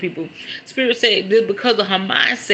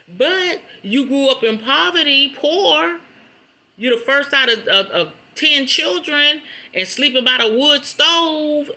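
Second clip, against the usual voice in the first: laughing; 8 semitones higher, 4 dB louder than usual. Real, not acted. Laughing at mom's poverty story.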